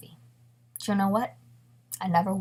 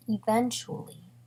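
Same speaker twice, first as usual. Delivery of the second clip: "eventually" stretched slowly at usual volume; drawn out; 2 semitones higher than usual. Real, not acted. Narrator stressing the long wait, drawn-out "eventually". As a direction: draw "eventually" out slowly, unhurried.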